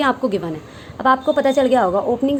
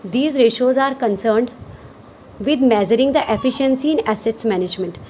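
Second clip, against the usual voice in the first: every word spaced out slowly for note-taking; slow dictation; much slower than usual. Shown as a demonstration. Teacher dictating a definition to students, very slowly. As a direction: read it out slowly so students can write it down.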